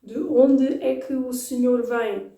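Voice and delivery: smoother news-reader delivery; news reading. Shown as a demonstration. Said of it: "reading the news".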